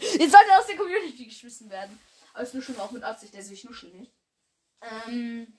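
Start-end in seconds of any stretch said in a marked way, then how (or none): 0.0-2.0 repeat after mumbling. Real, not acted. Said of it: "Ich hab grad genuschelt".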